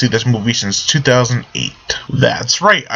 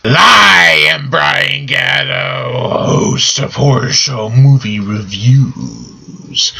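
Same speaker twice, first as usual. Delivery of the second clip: dramatic shout; much slower than usual. Pretend. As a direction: bellow the host intro. Exaggerated sign-off shout.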